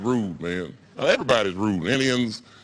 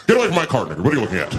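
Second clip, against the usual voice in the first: mock yell; 5 dB louder, much faster than usual. White shopper yells.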